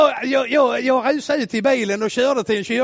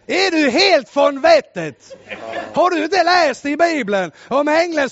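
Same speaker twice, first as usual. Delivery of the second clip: exasperated retort; 4 semitones higher, 3 dB louder than usual. Retold or imitated. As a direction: drag it out in disbelief. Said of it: "då sa jag så". (långsam, misstrogen motfråga)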